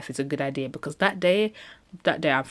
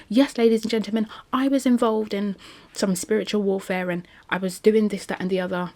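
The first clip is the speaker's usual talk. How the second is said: higher-pitched British speechmaking voice; mock British Jada; 5 semitones higher than usual. Imagining Jada confessing to spiritual warfare, mock British accent. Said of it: "I don't know why Jada's not British".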